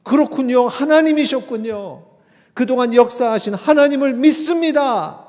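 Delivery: high, loud confession of faith; convinced believer. Acted. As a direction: declare belief at full voice. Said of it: "믿음이 있는 사람은".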